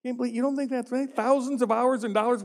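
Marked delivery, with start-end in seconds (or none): 0.0-1.1 fast, half-joking hurt protest; mock disappointment. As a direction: tease them for not laughing. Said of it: "I'm so disappointed".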